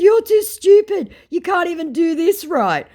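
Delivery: very high, loud put-down; scornful insult. Retold or imitated. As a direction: hurl a mocking insult. Insulting retort to the scammer.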